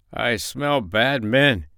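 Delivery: slow, drawn-out sleep-talk; lightly voiced dog, ominous and slow; understated slow growl. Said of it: "he growled".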